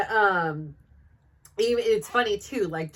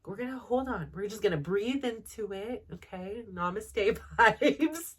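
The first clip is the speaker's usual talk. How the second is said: soothing self-talk. Retold or imitated. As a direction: settle yourself down gently, namaste vibes. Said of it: "talk to myself like I'm a child".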